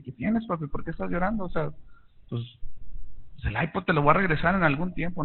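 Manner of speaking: put-on softly reassuring a crying little boy; hushed and gentle, like sitting on his bed; tender comforting. Father hugging his crying son, soft and reassuring.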